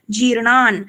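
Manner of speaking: जीर्णान् ending on a clear half न; half न sounded. Shown as a demonstration. Teacher shows the half letter in जीर्णान्. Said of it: "वो हमें यहाँ पे ही बोलना है".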